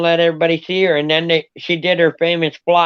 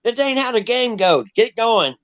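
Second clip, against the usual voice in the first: lightly voiced scolding dog, higher pitch; mock barking dog; 4 semitones higher than usual. Dog telling off the jackrabbit, mock barking voice. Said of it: "Peter looked down at it and barked like".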